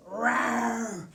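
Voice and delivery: playful mock bear roar for kids; hammed-up little bear growl. Walk like a bear.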